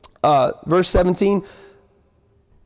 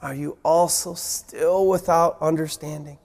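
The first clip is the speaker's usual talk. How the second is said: low, disappointed reproach; lightly exasperated teacher; Jesus scolding disciples, mildly exasperated; frustrated Jesus; 6 semitones lower, 4 dB quieter than usual. Retold or imitated. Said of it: "it doesn't sound very positive".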